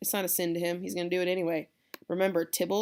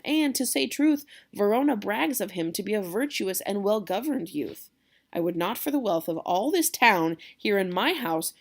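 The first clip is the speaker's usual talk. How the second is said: calm the hothead, party spirit; jovial Capulet; 2 semitones higher, 4 dB louder than usual. Acted. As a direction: genial host soothing his angry nephew. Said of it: "So Capulet says".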